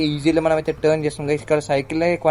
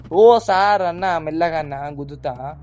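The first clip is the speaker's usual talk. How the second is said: mock pleading passenger; slower than usual. Passenger begging the reckless driver to slow, mock pleading.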